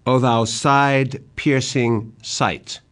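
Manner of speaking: slow, lifted lament; O thou side-piercing sight, drawn out in grief; a son's cry at his mad father's sight; anguished cry. Acted. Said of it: "Edgar cries out".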